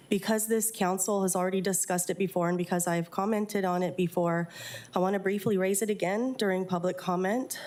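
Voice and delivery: blocked nose from a cold; stuffy nose. Real, not acted. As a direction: speak through a stuffy, congested nose. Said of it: "I'm a little stuffy".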